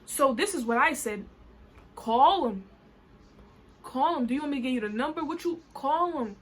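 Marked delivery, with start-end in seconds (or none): 1.9-6.4 put-on daring him in a Caribbean patois accent; angry patois. Rider dares him to call the police, angry patois. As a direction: let the patois slip out, defiantly. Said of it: "the patois was coming out of my mouth".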